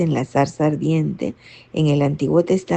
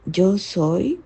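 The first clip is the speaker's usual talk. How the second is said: voice of God; 4 dB quieter, much slower than usual. Retold or imitated. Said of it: "Y Dios le dice".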